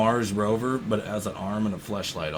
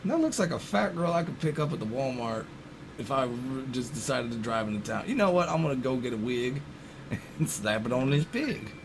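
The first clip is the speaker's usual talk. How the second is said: hick farmer voice. Pretend. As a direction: play a randy country farmer. Voicing pig farmer.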